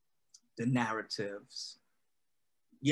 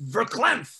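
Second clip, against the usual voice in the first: verklempt tossed out higher and louder with a wink; playful verklempt; 9 semitones higher, 6 dB louder than usual. Real, not acted. Telling the host about The Queen's Gambit, playfully verklempt. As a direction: pop the word verklempt up like a borrowed joke. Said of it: "as they say".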